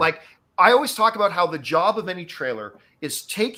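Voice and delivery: plain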